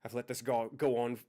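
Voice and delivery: emotional outburst. Acted. NPC confession, rising emotion.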